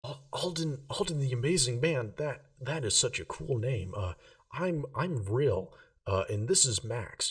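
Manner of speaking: put-on a starstruck kid stammering to a wizard; nervous young Rill.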